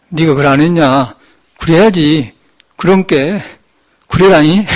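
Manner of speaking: lightly played-up Jeolla accent; Jeolla dialect. Shown as a demonstration. Monk showing how hometown speech slips out abroad, Jeolla dialect. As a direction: slip into everyday Jeolla dialect. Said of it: "전라도 말이 나와버리더라고요".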